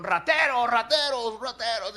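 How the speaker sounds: high, loud repeated cry of thieves; Joseph's servants catching up and shouting at the brothers; accusing shout. Acted. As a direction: yell it after the fleeing men.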